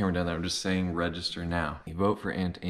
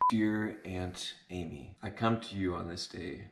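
depressing diary; 6 dB quieter than usual. Acted. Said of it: "that's like the most depressing diary".

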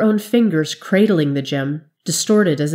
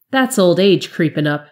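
owlish advice. Acted. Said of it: "Jarl advised him owlishly".

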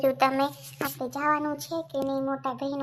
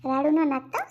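firm retort; 4 dB louder than usual. Acted. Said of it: "શાંતિથી બોલજો".

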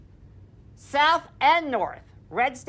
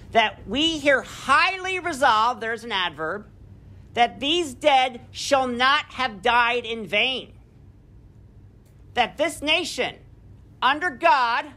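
oratorical reading. Acted. Reads Gettysburg Address aloud.

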